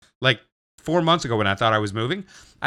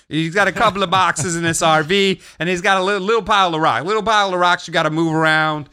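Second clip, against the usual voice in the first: higher, pushy New York Italian caricature; Italian New Yorker; 4 semitones higher than usual. Retold or imitated. Buyer pressing Willie for a time, Italian New Yorker accent. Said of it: "Italian New Yorker caricature".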